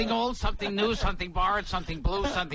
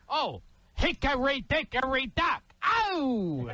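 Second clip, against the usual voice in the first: higher, shouted tough-guy nursery rhyme; Dice Clay impression; 5 semitones higher, slower than usual. Host asks for Dice Clay, comic shouts the rhyme higher. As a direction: bark the rhyme like a brash comic. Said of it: "Do Dice Clay".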